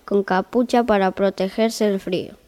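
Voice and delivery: calm, even fairy-tale reading voice; story narration. A narrator's reading. Narrator opening the tale for listeners, in storytelling voice. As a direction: read it like a bedtime story.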